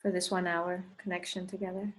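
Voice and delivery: unhurried meditation leader, long pauses between phrases; guided meditation. Acted. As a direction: guide them gently through breath and intention. Leads a meditation.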